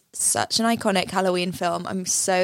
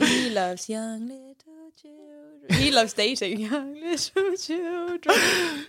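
mock creepy voice; 5 semitones higher, slower than usual. Joking about Leo, mock voice.

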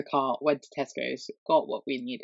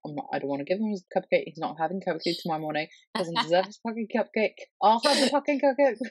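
mock furious rant; 2 semitones higher, faster than usual. The speaker rants to Shruti about withholding the cupcake: fast mock fury. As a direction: vent like a fed-up mum who's had enough.

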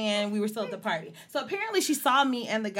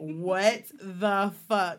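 slow, drawn-out what the fuck; stunned disbelief; 2 semitones lower, much slower than usual. Retold or imitated. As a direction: say it slowly, stunned. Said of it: "was like".

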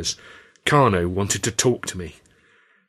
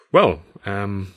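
stammered; much slower than usual. Acted. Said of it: "I stammered".

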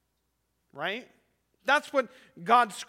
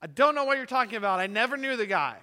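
Peter's hurried denial; 3 semitones higher, 6 dB louder, much faster than usual. Retold or imitated. Peter denying Christ, acted.

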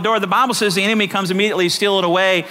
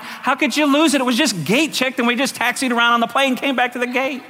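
higher-pitched, incredulous complaint; mild retold protest; 5 semitones higher than usual. Passenger about lost gate-checked bag, mildly incredulous. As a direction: lightly act out baffled protest.

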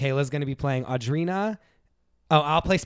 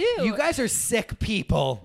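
furious accusation; 10 semitones higher, slower than usual. Acted. Lauren lashing out at Heidi and Spencer, high furious. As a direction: spit it out slowly. Acted quarrel.

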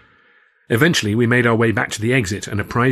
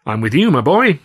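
enthusiastic cry; 4 semitones higher, 6 dB louder than usual. Acted. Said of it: "I cried, with an enthusiasm".

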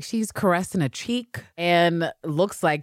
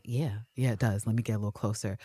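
lower, softer and coaxing yes; mock soft reply; 7 semitones lower, 8 dB quieter than usual. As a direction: draw her in, much quieter. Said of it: "Ann Walker's like".

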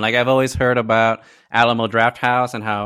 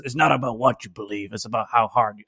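put-on southern accent; 5 dB quieter than usual. Host quoting Indy from the trailer, southern accent. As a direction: quote it with a slight southern twang. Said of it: "doing it with a southern accent".

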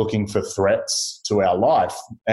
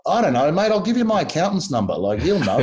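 laughing shrug; 6 semitones higher, faster than usual. Retold or imitated. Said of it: "And I'm like".

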